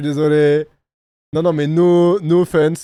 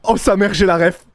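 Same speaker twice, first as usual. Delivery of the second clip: raised, excited outburst; stunned excitement; 4 semitones higher than usual. Real, not acted. Reactor warns viewers they aren't ready, stunned and excited. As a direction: exclaim as if stunned by a scandal.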